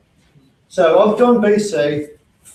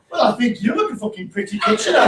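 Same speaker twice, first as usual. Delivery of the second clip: mock wife; 4 semitones higher, faster than usual. Wife's sarcastic reply retold.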